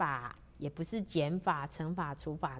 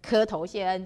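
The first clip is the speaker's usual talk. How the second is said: raised, louder ceremonial call; loud cry; 2 semitones higher, 7 dB louder than usual. A narrator's reading. Minister accepts the emperor's order, crying it out loudly. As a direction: call out obedience to the throne. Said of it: "纪晓岚就高喊一声哦".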